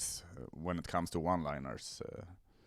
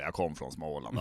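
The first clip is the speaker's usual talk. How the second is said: lower, softer non-attempt at Småland Swedish; half-hearted Småland accent; badly faked Småland dialect; 5 semitones lower, 3 dB quieter than usual. Comic mocking his own dialect skills, half-hearted Småland accent. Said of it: "och säger de Småland".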